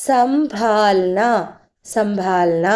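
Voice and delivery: സംഭാൽന slowly, with clear m and long aa; model pronunciation. Shown as a demonstration. Teacher reviewing the word, drawn-out സംഭാൽന. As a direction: sound out സംഭാൽന syllable by syllable. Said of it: "അപ്പോ ഒന്നുകൂടി നോക്കാം".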